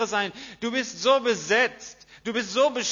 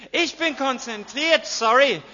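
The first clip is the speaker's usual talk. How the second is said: irritated footballer; 5 dB louder than usual. Acted. Footballer brushing off wife.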